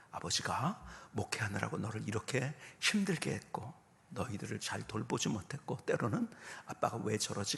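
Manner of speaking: low, softened fatherly apology; earnest confession. Retold or imitated. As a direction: quietly ask your son's forgiveness, retold sincerely. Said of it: "정말 진지하게 아들에게".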